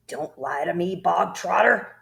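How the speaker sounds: loud snap on the name; barked. Acted. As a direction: bark the warning. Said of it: "barked the Trunchbull".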